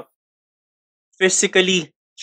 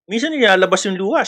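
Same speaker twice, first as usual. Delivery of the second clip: ordinary delivery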